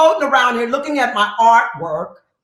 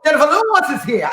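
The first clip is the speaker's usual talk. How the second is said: quick, excited fan squeal; 3 dB louder, faster than usual. Retold or imitated. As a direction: gush like a thrilled fan. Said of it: "fans greeting her backstage".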